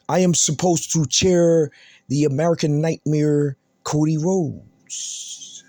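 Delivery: dragged-out, fading mock Cody promo. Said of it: "let me talk like Cody".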